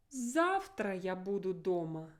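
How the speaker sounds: Завтра stressed with a marked fall; emphasize Завтра as new information; emphasis on Завтра. Shown as a demonstration. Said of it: "I have to emphasize my rhyme now".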